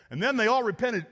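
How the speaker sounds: grumpy missionary. Retold or imitated. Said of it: "and he's like".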